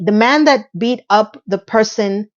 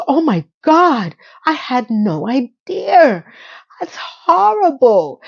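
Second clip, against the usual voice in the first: mock horrified; 4 semitones higher, slower than usual. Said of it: "And he goes".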